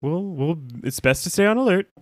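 flustered librarian hedging; lightly voiced nervous Giles; imitating Giles. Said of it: "he's like".

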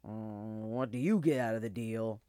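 put-on low, doubtful old dog; hesitant old dog. A narrator's reading. Old dog questioning the wolf's motive, hesitant. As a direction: hum warily before asking. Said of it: "The dog hesitated".

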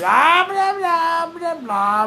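high, loud mocking chant; mocking blah-blah. Real, not acted. Podcaster drowning out co-host's complaint, loud and mocking. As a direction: drown out the other person mockingly.

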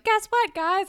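high, loud burst of big news; mock excited announcement. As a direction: imitate someone eagerly announcing news. Paige announces her news.

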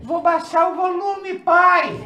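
high, soft, slow child imitation; daughter's voice. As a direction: answer dad in a small singsong voice. Voices his daughter answering him.

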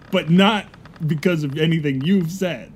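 usual speaking voice

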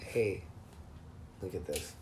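low soft mocking voice; mocking tattletale. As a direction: sneer it like a tattletale.

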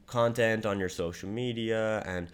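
hesitant, unsure cold pitch with no conviction; unconfident voice message. Shown as a demonstration. Salesman demoing how a bad voice message sounds, hesitant and unsure. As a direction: mumble through it like you don't believe it. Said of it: "your voice messages sound like this".

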